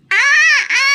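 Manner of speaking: fake pain groan. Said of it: "क्यों चिल्ला रही हो?".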